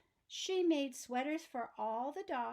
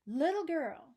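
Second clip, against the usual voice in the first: louder, grand address; pompous archduke; 3 semitones higher, 7 dB louder than usual. Acted. Archduke summoning Annabel, louder and grand. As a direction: announce yourself like nobility. Archduke demands the yarn box.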